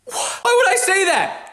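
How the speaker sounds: high, slow mock parent voice; slow, high imitation of a parent. Comic mimicking the parents' line in a slow, high voice.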